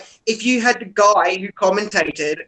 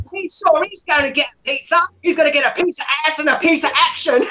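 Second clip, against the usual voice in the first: commentator voice; 6 semitones higher than usual. Retold or imitated. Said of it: "the commentator goes".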